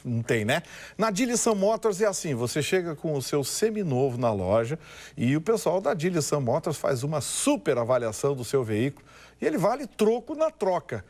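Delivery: upbeat car dealer ad read; booming prize announcer. Acted. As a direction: sell it like a radio pitchman. (locutor de anúncio animado)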